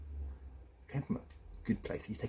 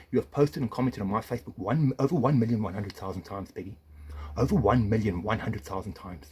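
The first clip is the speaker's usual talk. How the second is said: angry emphasis; 5 dB louder than usual. Real, not acted. Angry accusation at ex-wife.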